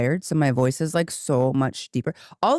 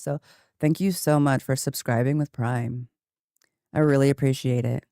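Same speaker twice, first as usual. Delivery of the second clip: restrained thanks, held low and even; lower register. Shown as a demonstration. Streamer thanking a subscriber, deliberately kept in lower register. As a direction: keep the voice down while thanking. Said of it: "I'll keep the lower registers of my voice".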